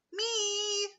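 high, eager shout. Acted. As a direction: call out like an eager kid. Children eagerly volunteer.

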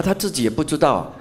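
usual speaking voice

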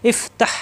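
ইফ তাহ as two closed syllables, f and h sounded; joined consonant syllables. Shown as a demonstration. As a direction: close ইফ on f, then তাহ on a breathy h. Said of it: "দুই হরফ মিলে এক শব্দে উচ্চারণ হবে". (ইফ আর তাহ, দুই হরফ মিলিয়ে এক শব্দে)

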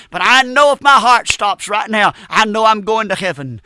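emphatic, driving pulpit delivery; fervent preaching. Real, not acted. Preacher exhorting the congregation about hell and souls, fervent preaching. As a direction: preach it with conviction, leaning on key words. Urgent altar-call preaching.

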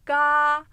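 Ga with the mouth open wide as if saying A; open-mouthed Ga, between o and a. Shown as a demonstration. Teacher shows the open vowel to the student. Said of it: "ağzımı A der gibi açarken O sesi veriyorum".

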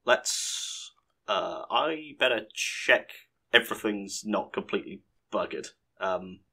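soft, half-whispered muttering while checking; muttering to self. Real, not acted. Gamer checks that the recording survived, quietly muttering to himself. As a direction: mumble it under your breath. Checking game after accidental crash.

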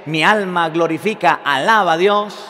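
retold exultant praise; emotional praise. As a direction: proclaim the praise with acted emotion. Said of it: "se llena de emoción la Virgen María".

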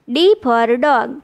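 put-on very slow, each word spelled out for kids; slow classroom model reading; slow demo reading. Shown as a demonstration. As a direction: read it slowly so children can copy. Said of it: "ઉચ્ચાર શીખીશું".

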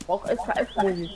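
talking while chewing gum. Real, not acted. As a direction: chew gum as you speak. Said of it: "Das klingt, als ob du essen würdest". (mit Kaugummi im Mund)

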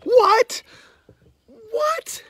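ordinary talk, nothing marked

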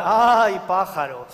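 drawn-out "ay" falling away; exaggerated sighing comeback; mock coy reply. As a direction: act out a teasing village girl's reply. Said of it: "te respondía con una frase ya tradicional".

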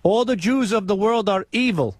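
put-on foreign accent, broken English. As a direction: prank caller with a fake foreign accent. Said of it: "why do you have an accent?".

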